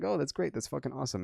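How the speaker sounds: dry sarcastic praise; deadpan fake enthusiasm. Sarcastic about short hours.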